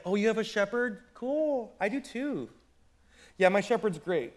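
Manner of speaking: playful boastful sheep voice, one-upping; bragging sheep. Pretend. Sheep bragging to another sheep over the fence, smug and playful. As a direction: brag about your shepherd like a smug kid. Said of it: "bragging about his shepherd".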